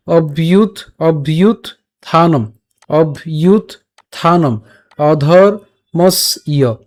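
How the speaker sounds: "অভ্যুত থানম, অধর্মস্য" in separate syllable chunks with pauses; fully broken down. Shown as a demonstration. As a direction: break "অভ্যুত / থানম" apart, then stretch "অধর্মস্য" slowly. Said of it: "আমি একদম পুরো ভেঙে দিচ্ছি".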